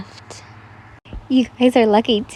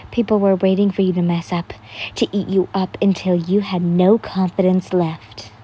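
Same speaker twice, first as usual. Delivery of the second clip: tearful; 4 semitones lower than usual. A narrator's reading. You whisper to the friend, tearful and hushed. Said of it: "as tears ran down your cheeks".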